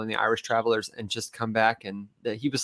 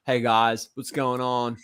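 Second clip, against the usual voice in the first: imitated Southern twang; Mississippi accent; slower than usual. Imitating a friend from southern Ohio, Mississippi accent. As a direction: lightly mimic a Mississippi speaker. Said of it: "he sounds like he's from Mississippi".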